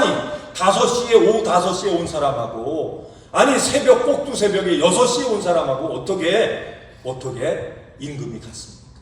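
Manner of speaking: indignant complaint. Retold or imitated. Early worker protests to master over equal wages, indignant. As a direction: demand fairness, voice rising. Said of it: "원망을 하면서 따지는".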